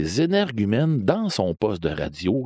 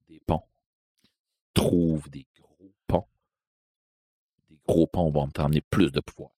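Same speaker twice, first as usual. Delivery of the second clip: ominous stranger again; 3 semitones lower than usual. Retold or imitated. Stranger answers from above.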